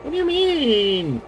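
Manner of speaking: high, slow disbelieving question; incredulous. Real, not acted. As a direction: protest in disbelief, drawn out. Surprised audio muffled complaint.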